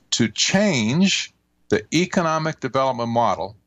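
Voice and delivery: unhurried reading, pausing between phrases; slow, deliberate reading. Retold or imitated. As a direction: read out the quote with measured pauses. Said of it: "I'll read it slowly".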